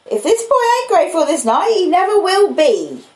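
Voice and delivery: high, sharp scolding woman; the stern older sister bursting in; sister's voice. Acted. Mrs Joe scolds Pip.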